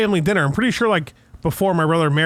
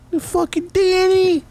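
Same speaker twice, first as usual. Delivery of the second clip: higher, slow Bronx Italian rant; Bronx Italian dad; 10 semitones higher, slower than usual. Retold or imitated. Son voices dad with Bronx Italian accent, hammed-up. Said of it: "the fucking Bronx Italian coming out of him".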